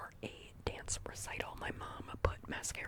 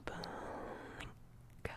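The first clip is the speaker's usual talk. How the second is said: soft blink cue; 6 dB quieter than usual. Shown as a demonstration. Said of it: "relaxing to me to hear someone say".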